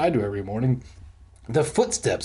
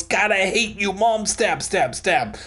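higher-pitched mock killer rant; lightly voiced killer; 5 semitones higher than usual. Imagined serial killer ranting while stabbing pillows, mock-angry. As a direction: mime stabbing with a raised voice.

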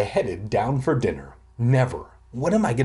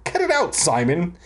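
sharp high snap at the brother; boy snapping at his kicking brother, high and annoyed; 5 semitones higher than usual. Acted. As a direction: jab it out, annoyed. Kids bickering at table.

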